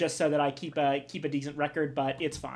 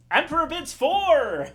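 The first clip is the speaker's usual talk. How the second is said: excited; 7 semitones higher, 5 dB louder than usual. Acted. Announcing the winning bid loudly.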